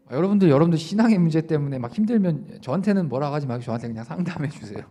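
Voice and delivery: normal talking voice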